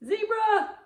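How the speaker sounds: high, bright cheer of triumph; excited cheer. Real, not acted. Grandma cheering the giraffe answer for Grandma Lou.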